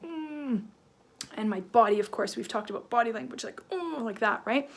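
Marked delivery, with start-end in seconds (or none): 0.0-0.6 soft, raised angry "mm"; mock a simmering hum. Shown as a demonstration. Teacher acting a face getting red, angry hum. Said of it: "And I'm getting angry". 3.7-4.0 soft, high mock-angry grunt. Shown as a demonstration. Teacher showing angry body language, angry grunt. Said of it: "that's when I'm angry".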